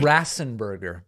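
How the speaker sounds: Raffensperger said as "Rassenburger"; mocked mispronunciation. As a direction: echo the botched Raffensperger, "Rassenburger". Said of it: "The, the last name is".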